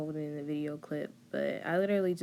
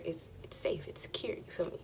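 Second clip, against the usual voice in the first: whispering; 5 dB quieter than usual. Real, not acted. Confiding aside to viewers.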